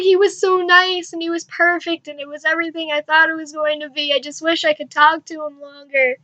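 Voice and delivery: mock weepy gushing, high then easing down; retold tearful gushing. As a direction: gush as if through tears. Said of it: "just started bawling my eyes out".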